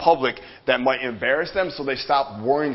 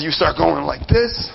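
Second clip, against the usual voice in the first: ordinary talk, nothing marked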